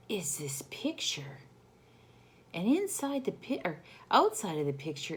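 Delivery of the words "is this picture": whisper. Acted. Whispered aside.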